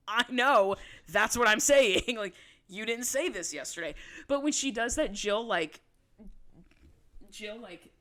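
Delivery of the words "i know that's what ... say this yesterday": louder, chuckling retort. Retold or imitated. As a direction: laugh it off while insisting. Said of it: "Holly starts, like, chuckling".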